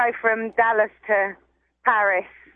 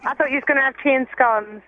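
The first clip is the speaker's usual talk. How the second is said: mock British accent; 3 semitones higher, faster than usual. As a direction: fake English accent, fast. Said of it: "she didn't like your accent".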